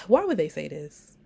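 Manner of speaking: sighing, half-pained disbelief; a weary groan of a question; sighed out, almost whining; exasperated sigh. Real, not acted. Reacting to a shocking quote.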